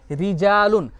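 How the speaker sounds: रिजालुन with a fine, thin R; thin light R. Shown as a demonstration. Teacher giving example of the rule, thin R. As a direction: keep the R in रिजालुन light, long vowel drawn. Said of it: "बारीक यानी पतली करके".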